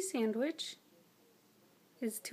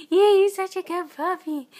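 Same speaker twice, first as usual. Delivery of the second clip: squeaky praising a dog; 6 semitones higher, 13 dB louder than usual. Real, not acted.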